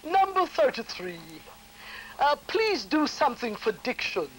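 voice from the dark. Retold or imitated. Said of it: "a voice coming from out of the darkness".

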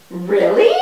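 ordinary delivery

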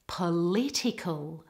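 "Political" with all the stress on the second syllable. Shown as a demonstration. Teacher models it after "Ready?", second-syllable stress on "Political". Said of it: "stress should all be on the second syllable".

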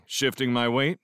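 ordinary delivery, nothing marked

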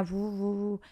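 imitated boo-hoo sobbing; llanto imitado. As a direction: mimic crying with drawn-out 'boo' sounds. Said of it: "era todo el rato llorando". (llanto fingido al contarlo)

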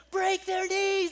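high, loud, slow drawn-out yell of "Break". Retold or imitated. Kid retold yelling at the game, high loud drawn-out yell. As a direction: bellow "Break" stretched long and high. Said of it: "he's yelling".

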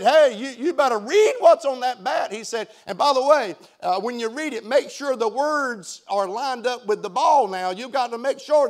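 taunting. Retold or imitated. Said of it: "kept aggravating Hank. Said".

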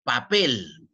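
"Papel" with a firm stress on "pel"; acento en última sílaba. Shown as a demonstration. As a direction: punch the final "pel" in "Papel". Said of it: "en pel". ("Papel" marcando con fuerza "pel")

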